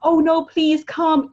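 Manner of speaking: slow, drawn-out needy plea; mock needy plea, stretched out slowly; needy begging. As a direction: beg like a clingy friend. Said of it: "It shouldn't be like".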